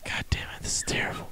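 whispered mock despair; hushed, mock-tragic curse. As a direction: whisper it like it's all over. Losing another cult member.

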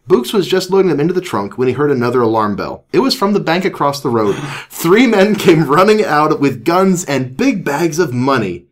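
animated read-aloud voice; story narration. A narrator's reading. Reads a children's story aloud.

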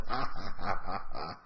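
loud mock cackle, ha by ha; big put-on belly laugh at someone's expense; imitated mocking laugh. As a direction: mimic a commentator pointing and jeering with laughter. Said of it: "points at him and starts laughing".

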